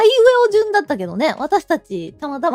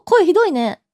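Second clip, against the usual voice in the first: just woke up; 4 semitones higher than usual. Real, not acted.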